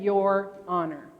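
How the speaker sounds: "Your Honor" said slowly, each word distinct; clearly separated. Shown as a demonstration. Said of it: "he slurs it all together".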